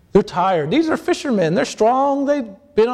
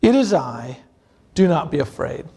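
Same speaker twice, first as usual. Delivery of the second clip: reassuring Jesus; 3 semitones lower than usual. Acted. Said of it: "he immediately speaks to them".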